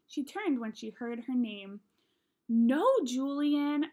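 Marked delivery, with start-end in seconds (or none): 2.5-3.9 whisper scream. A narrator's reading. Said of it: "I whisper screamed".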